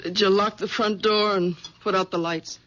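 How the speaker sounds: low, nagging housewife voice; low, bossy nagging wife. Acted. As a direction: scold him like a domineering wife.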